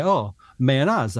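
"mayonnaise" slowly, ending in -ah-zuh; Italian-Dutch pronunciation. Retold or imitated. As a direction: quote a local saying "mayonnaise" with a long ah. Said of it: "'cause they say".

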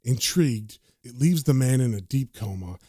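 low, even narrator delivery; narration read aloud. A narrator's reading. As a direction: read it out as ominous caption text. The narration says.

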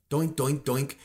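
"doink" as a dull axe bouncing; even, rhythmic mock chopping noises; imitated axe chops. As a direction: make the sound of a useless axe. Mimes axe hitting the tree.

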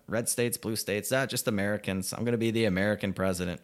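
a lightly mocking replay of Biden's slogan; sarcastic mock quote. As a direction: toss off his line mockingly. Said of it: "repeats Biden mockingly".

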